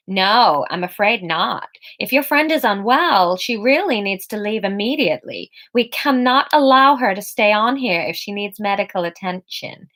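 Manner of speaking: lightly voiced American receptionist; polite American spa clerk refusing; American accent. Spa receptionist refusing Emma in American accent. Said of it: "We need an accent".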